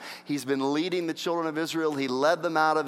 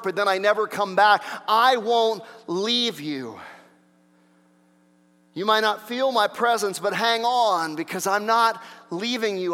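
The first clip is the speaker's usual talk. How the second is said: raised, insistent preacher's voice; impassioned preaching; 4 semitones higher, 5 dB louder than usual. Acted. Preacher voicing God's promise to believers, impassioned. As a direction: press the promise home with force.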